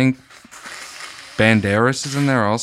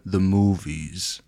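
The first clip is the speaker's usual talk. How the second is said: slow, low gravel-free movie-star drawl; lightly voiced action star; Vin Diesel; 3 semitones lower, 4 dB quieter, much slower than usual. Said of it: "Like when Vin Diesel said".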